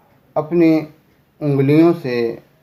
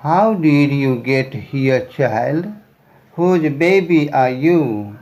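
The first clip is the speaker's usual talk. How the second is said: very slow, careful read-aloud; deliberate storybook reading; slow story reading; much slower than usual. A narrator's reading. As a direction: read each word out slowly for learners.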